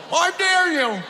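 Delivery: high loud taunting shout; shouted dare. Retold or imitated. Grandma holding his bucktails hostage, loud high taunt. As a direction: yell the dare, laughing threat. Grandma threatening over garbage disposal.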